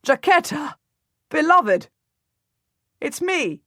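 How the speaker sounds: husband shouting across the road to his wife; joyful yell. Acted. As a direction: shout her name in delight. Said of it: "my husband yells".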